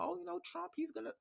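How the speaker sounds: high, soft mimicked chatter; mocking imitation. Mimicking people talking about Trump, mocking imitation.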